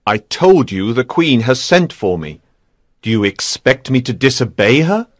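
low, cool knight's retort; cool and unyielding; cold. A narrator's reading. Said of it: "he asked coldly".

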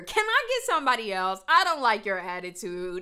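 mimicking a man who demands a new officer as if ordering food; casual ordering tone. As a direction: say it like you're placing a fast-food order. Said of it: "he said that like somebody was taking his order".

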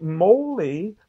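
high, loud call into the house. A narrator's reading. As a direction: call his friend's name loudly. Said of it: "Then he called".

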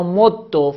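مد with a doubled dal ending in short o; assimilated, damma ending. Shown as a demonstration. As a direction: hold the dal of مد, then release -do. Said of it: "در هر سه صورت ادغام". (مد با دال مشدد و ضمه)

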